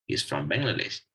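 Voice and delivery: "from" unstressed, just connecting; weak form of from. Shown as a demonstration. Teacher explaining the weak form, "from" left unstressed. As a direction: pass over "from" without emphasis. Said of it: "It's just connecting".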